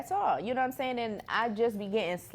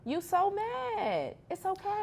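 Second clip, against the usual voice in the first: mocking taunt; 8 semitones higher, much slower than usual. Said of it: "I'ma hit the mannequin challenge".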